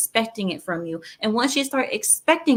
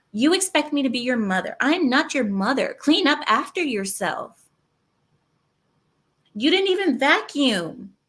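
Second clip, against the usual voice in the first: mock scolding girlfriend; 4 semitones higher than usual. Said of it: "When a woman speaks like that".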